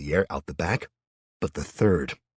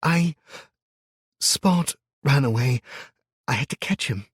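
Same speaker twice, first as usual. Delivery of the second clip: put-on high, timid little-girl voice; a child owning up, small and unsure; 9 semitones higher, 5 dB louder than usual. A narrator's reading. Little girl explains timidly that her dog ran away. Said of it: "she said in a small voice".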